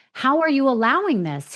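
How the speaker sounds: retold indignant demand. Reporter confronting the parents, retold with indignant disbelief. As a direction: voice lifts in pleading disbelief.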